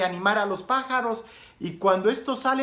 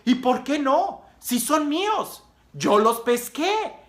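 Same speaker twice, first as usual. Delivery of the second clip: higher, drawn-out, stubborn comeback; defiant retort; 5 semitones higher, slower than usual. Acted. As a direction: justify yourself like a defiant boy. Boy defends his right to birds.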